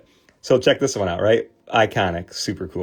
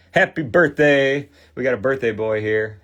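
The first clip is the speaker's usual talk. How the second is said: excited birthday call; 4 semitones higher, 4 dB louder than usual. Real, not acted. Calling out to a viewer on his birthday, excited. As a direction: cheer it out like a party greeting.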